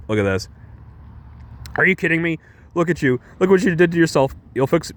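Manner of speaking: mock-scold him like a fed-up butler; imitating pissed Alfred. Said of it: "Alfred's, like, really pissed".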